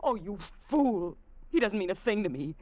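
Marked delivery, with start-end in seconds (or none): 0.0-1.2 anguished whisper. Acted. Despairing at his suspicion.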